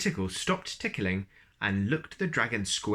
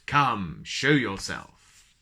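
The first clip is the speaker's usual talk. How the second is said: louder, very slow dragon command; 5 dB louder, much slower than usual. Acted. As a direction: draw the order out slowly and loud. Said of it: "rumbled a very deep voice".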